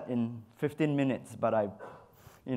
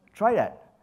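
emphatic; 8 semitones higher, 7 dB louder than usual. Real, not acted. Urging audience to try.

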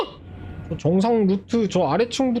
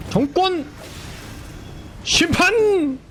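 battle cry; 11 semitones higher, much slower than usual. Real, not acted. Shouting skill names in combat.

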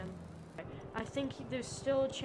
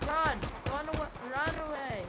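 shouting run; 3 semitones higher, 4 dB louder than usual. Real, not acted. Yelling at a goat to flee.

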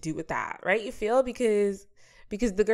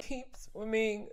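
Dory quote; 3 semitones higher, 4 dB quieter, much slower than usual. Retold or imitated. Quoting Finding Nemo.

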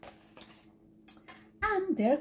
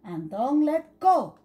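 bossy sister scolding, louder on go; quacking; 4 dB louder than usual. Acted. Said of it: "quacked Polly".

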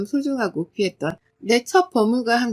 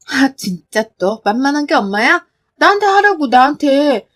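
fierce defense; 3 semitones higher, 5 dB louder than usual. Acted. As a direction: take the hit for mom. Daughter defends mother.

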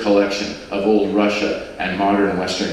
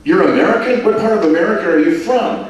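put-on much higher, louder excited Liverpool accent; 9 semitones higher, 4 dB louder, faster than usual. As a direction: burst out proud of Liverpool. Liverpool couple question Mike.

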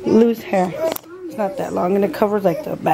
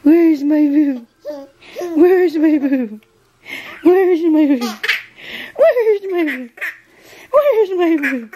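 put-on high, slow whiny baby voice breaking into laughter; laughing baby voice; 7 semitones higher, slower than usual. Mother mimics her baby asking for milk, laughing high whine.

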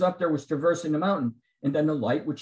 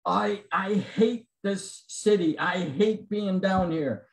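ranting man; 3 semitones higher, slower than usual. Retold or imitated. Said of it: "a rant saying".

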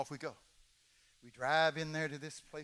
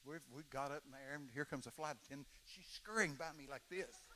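quiet aside; 2 semitones lower, 9 dB quieter than usual. Retold or imitated. Comic story, hushed aside.

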